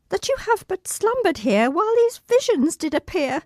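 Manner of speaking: high, strained recitation; reciting through pain. Acted. Injured child actress reciting Puck's final speech. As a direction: push the lines out while hurting.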